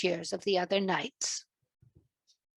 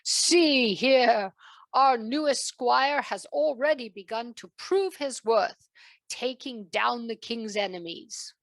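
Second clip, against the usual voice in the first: louder proclamation; announcing; 4 dB louder than usual. Acted. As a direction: address the hall. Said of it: "announced King Arthur".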